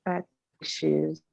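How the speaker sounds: choppy bad connection; words cut by dropping Wi-Fi; breaking up. Real, not acted. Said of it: "Sorry, you're breaking up".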